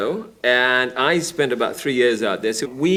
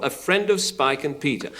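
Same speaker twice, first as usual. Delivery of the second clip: usual speaking voice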